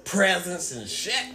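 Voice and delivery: slow laughing delivery. Real, not acted. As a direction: laugh through the words. Laughing end of story.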